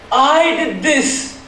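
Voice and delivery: slow, dawning shock; stunned realisation. Acted. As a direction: realise it slowly. Hacker realises his guilt.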